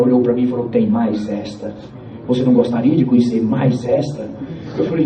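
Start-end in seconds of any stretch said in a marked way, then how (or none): 0.7-4.3 very serious. Retold or imitated. Washerwoman answering a young man's mockery, very serious. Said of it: "Ela ficou bem séria".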